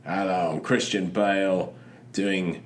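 slow, posh English press-tour drawl; Christian Bale interview voice. Retold or imitated. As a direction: play Bale plugging his film, slowly. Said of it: "That's how he talks in interviews".

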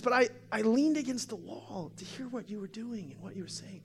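high-pitched imitated confession; emotional woman. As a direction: retell it as an overcome woman. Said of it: "she's real emotional".

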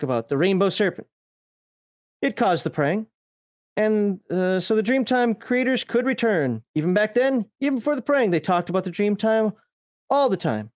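lightly put-on Australian storyteller; mild mock-Aussie lilt; Australian accent. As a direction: read it out in a half-hearted Australian accent. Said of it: "I hate speaking Australian".

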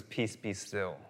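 low, very soft command; calm. Acted. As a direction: settle a storm with quiet authority. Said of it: "he kinda calmly".

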